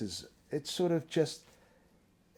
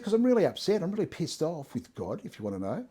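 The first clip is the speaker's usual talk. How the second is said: upset outburst; 5 semitones higher than usual. Retold or imitated. Younger self snapping at mate about God, mock upset. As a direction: replay his own flare of anger, then let it drop.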